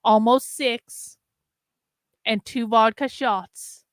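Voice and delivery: slow, slightly slurred tipsy speech. Real, not acted. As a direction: talk like you've had a few beers. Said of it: "'cause I'm a little drunk".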